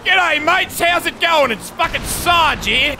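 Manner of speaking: put-on Australian accent. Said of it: "I just went fucking Australian".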